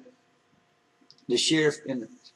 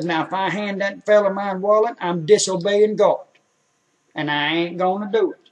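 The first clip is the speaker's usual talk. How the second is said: a louder, lightly voiced stubborn old man; old man refusing; 4 semitones higher, 6 dB louder than usual. Old man refuses to hand the sheriff his wallet, loud and stubborn. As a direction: dig in your heels, he won't disobey God. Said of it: "He said".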